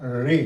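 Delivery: रे as one short syllable with rolled onset; short syllable drill. Shown as a demonstration. Teacher models the disputed vowel as a short रे. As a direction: say रे briefly and evenly. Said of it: "इसका एक उच्चारण जो है".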